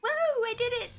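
high-pitched little victory squeal; triumphant cheer. Real, not acted. Player celebrating what she managed in the game, triumphant.

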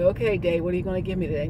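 mildly asking the day what it will bring; a lightly played passive "Okay, day"; passive morning greeting. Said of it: "You don't wake up and say".

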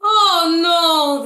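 loud high cry of dismay; panicked mayor shouting; mayor's shout. Acted. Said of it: "the mayor shouted".

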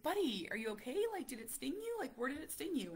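a touch of a worried father checking his son; worried dad. Retold or imitated.

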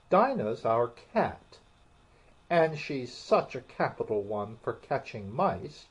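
lively, eager chatter. Acted. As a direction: gush about her pet. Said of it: "Alice replied eagerly".

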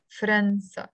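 فرنسا as a measured "fran-sa"; two clear syllables in فرنسا, no vowel after f; Lebanese pronunciation. Shown as a demonstration. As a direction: say فرنسا with f and r joined, Lebanese style. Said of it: "pronounce it with a sukun on the fe".

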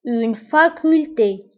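"Une faculté" drawn out slowly; teacher repeats for the class to copy. Shown as a demonstration. Slow drill.

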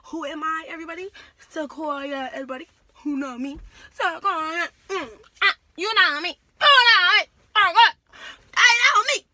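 high, loud rowdy calling out to the room; loud rising crowd-pumping yell; rowdy shout. Retold or imitated. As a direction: hype up the crowd, yelling. Retold rowdy rallying the class.

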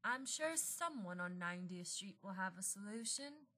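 soft, quiet reassurance; comforting. Acted. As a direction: gently reassure a worried friend. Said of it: "Sandra Saunderson comforted him".

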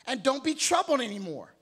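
slow, firm voice of God; lightly voiced stern God telling them to stand up; God scolding the troubled believer, slow and firm. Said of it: "And God is saying".

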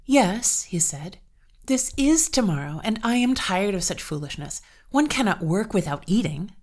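losing patience with the master; irritated farmhand. Acted. Peter protests to the master.

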